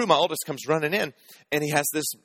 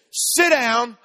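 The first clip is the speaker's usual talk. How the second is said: mock angry wife; 11 semitones higher, 5 dB louder than usual. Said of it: "She says".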